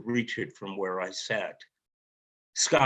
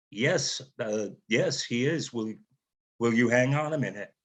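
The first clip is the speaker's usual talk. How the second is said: stammering. Retold or imitated. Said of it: "The lady with the accent stammered".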